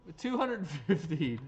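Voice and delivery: amateur Irish lilt, a bit loud; Canadian-Irish accent. Acted. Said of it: "Canadian, uh, Irish accent, I guess".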